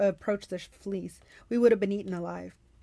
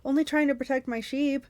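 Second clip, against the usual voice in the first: pleading with a stammer, higher; pitiful pleading; 3 semitones higher than usual. Acted. Defeated Cyclops begging Percy to spare him, pitiful. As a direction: beg for mercy with a catch. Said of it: "He began to sob".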